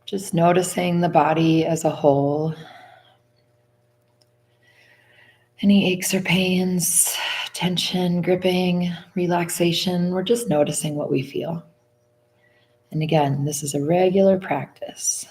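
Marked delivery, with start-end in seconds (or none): 0.0-11.6 slow body-scan guidance with long pauses; guided meditation. Acted. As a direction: lead them unhurriedly through the body, phrase by phrase.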